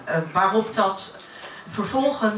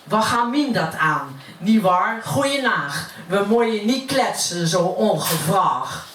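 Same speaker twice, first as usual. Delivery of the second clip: gossiping neighbour in Utrecht dialect; broad Utrecht accent. Acted. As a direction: recite it as Utrecht stairwell gossip. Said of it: "dat heb ik naar het Utrechts vertaald". (roddelend in plat Utrechts)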